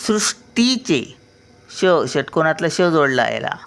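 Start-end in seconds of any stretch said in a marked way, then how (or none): 0.1-1.2 सृष्टीचे slow and high, half ष before टी; slow pronunciation demo. Shown as a demonstration. Grandmother showing children how to say सृष्टीचे, slowly. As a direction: draw out सृष्टीचे, joined ष clear. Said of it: "शचा उच्चार येतो".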